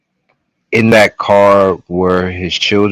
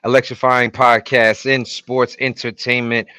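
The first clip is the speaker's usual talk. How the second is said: show announcer; 2 semitones higher than usual. Acted. Host opening the wrestling podcast to all ages, announcer style. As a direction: welcome the crowd like a wrestling emcee.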